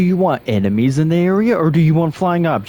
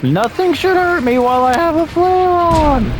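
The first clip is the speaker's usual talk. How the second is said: protesting at the unfairness; indignant whine; 14 semitones higher than usual. Real, not acted. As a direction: gamer griping to the game about the flare. Ranting at game damage.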